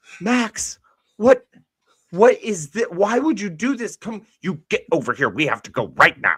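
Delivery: very high, harried, flustered mother voice. Acting out a mom coming around to scold her kid Max: flustered mom voice. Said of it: "that poor flustered mom coming around going".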